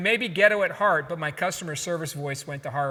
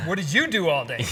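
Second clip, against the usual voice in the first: accusing question; 2 semitones lower than usual. Retold or imitated. Wife hearing husband's accusing question, pointed. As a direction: stress on "you", pointed and accusing. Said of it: "she took it like".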